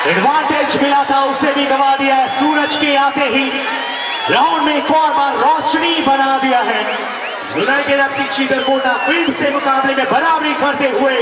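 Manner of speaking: full-voiced stadium football commentary; real sports commentator, projected and sustained; live play-by-play. Real, not acted. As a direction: call the shootout at full voice, holding the energy up.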